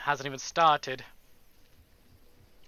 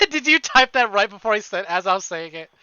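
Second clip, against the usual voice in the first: amused disbelief; 4 semitones higher, 8 dB louder than usual. Real, not acted. Laughing at chat's timing.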